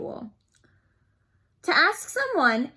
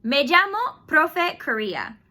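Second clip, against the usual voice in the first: slow demo introduction; 3 semitones higher, 3 dB louder than usual. Shown as a demonstration. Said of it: "So I will say".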